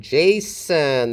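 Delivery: "Jason" slowly split, JAY then sun; first-syllable stress. Shown as a demonstration. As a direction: draw out JAY in "Jason", let the second syllable fall. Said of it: "stress is on the first syllable".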